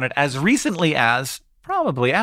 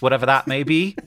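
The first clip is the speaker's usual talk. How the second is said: put-on British newsreader accent; mock BBC presenter, English accent. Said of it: "this is like B B C voice".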